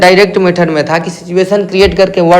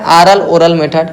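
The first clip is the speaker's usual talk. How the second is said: ऑरल ओरल मेथड drawn out slowly; slow, careful dictation; slower than usual. Shown as a demonstration. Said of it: "इसका और क्या नाम है".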